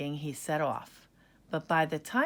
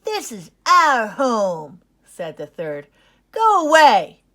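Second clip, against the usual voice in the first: angry threat; 5 semitones higher, 15 dB louder than usual. Acted. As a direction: chase the pup off your den. Third cub drives him off.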